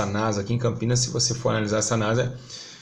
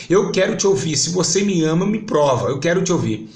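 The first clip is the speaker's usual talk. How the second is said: tearful pleading prayer; 5 semitones higher than usual. Retold or imitated. Praying on the church carpet, begging to hear Jesus, building tearful plea. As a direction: beg Jesus to speak, rising into a near-cry. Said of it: "chorando em lágrimas".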